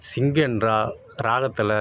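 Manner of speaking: usual speaking voice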